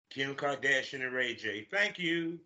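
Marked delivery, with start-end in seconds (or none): 1.7-2.4 sarcastic thank you. Acted. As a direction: thank them without meaning it. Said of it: "that's a sarcastic thank you".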